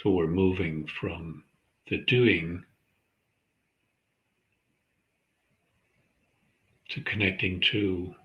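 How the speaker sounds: calm, measured meditation guide; unhurried centering practice, leaving space between phrases; guided meditation. Acted. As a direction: guide listeners gently into their breath, with long pauses.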